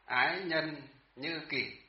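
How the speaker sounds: slow, spaced "ái nhân như kỷ"; slow model reading. Shown as a demonstration. Teacher to students, slowly modelling the phrase. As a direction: let each syllable land for the class. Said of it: "ví dụ như là ái nhân như kỷ".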